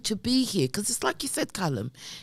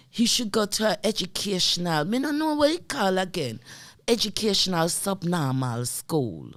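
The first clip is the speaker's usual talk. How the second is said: mum's Jamaican patois. Retold or imitated. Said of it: "who had a strong Jamaican accent".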